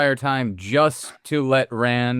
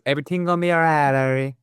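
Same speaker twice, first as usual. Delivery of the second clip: quick Jamaican lilt, pitched up; Jamaican accent; 3 semitones higher, faster than usual. Retold or imitated. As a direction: imitate Brad Pitt's Jamaican accent. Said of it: "Brad Pitt says that line in the Jamaican accent".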